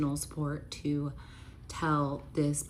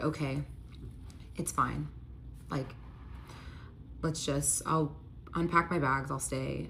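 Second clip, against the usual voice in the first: softer, halting imitation of caving; reluctant giving in; 3 semitones lower, 7 dB quieter than usual. Stubborn ex agrees to stay after the fight, retold reluctant concession. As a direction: give in quietly, with pauses between phrases. Stubborn ex finally gives in, acted.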